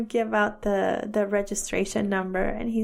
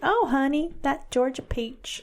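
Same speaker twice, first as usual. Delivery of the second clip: raised, drawn-out Southern imitation; Southern accent; 4 semitones higher, slower than usual. Imitating friend with Georgia accent, playful Southern. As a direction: play a mock Southern belle. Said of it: "She's got a beautiful Southern accent".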